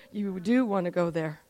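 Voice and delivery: low, soft reply; gentle correction. Retold or imitated. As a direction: quietly overrule the objection. God quietly corrects her reluctance.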